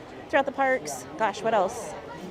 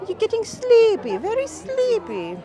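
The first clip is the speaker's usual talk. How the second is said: hypnotist voice; 11 semitones higher, 3 dB louder than usual. Pretend. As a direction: lull them like a stage hypnotist. Answers "feel the tiredness" with a hypnotist line.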